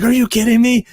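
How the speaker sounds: astonished, high and loud retelling; retold disbelief. Retells her astonished reaction.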